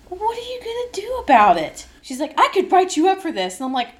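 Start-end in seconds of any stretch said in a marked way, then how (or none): 0.1-1.9 high, defiant dare; defiant challenge. Retold or imitated. Defiant comeback to coach. 2.4-3.6 high, loud bossy threat; mock threat. Coach threatens.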